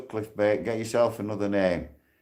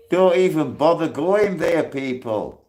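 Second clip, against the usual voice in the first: angry rant; 4 semitones higher than usual. Real, not acted. Ranting at critics in prison.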